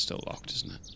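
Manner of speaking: whispered. Real, not acted. Muttering to self at locked door.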